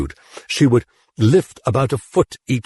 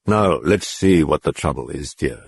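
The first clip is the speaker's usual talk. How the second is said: gently; 5 semitones lower than usual. Acted. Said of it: "he said gently".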